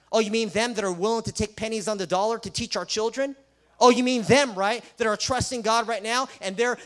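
mock the doubters with sarcasm; sarcastic mock quote.

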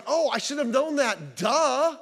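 high, slow, self-mocking "duh"; mock realization. Preacher mocks the believer who finally gets it, slow and hammed-up.

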